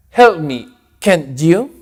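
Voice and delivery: annoyed, pushy request; irritated. Shown as a demonstration. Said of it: "Algo más irritado". (pedido molesto y fastidiado)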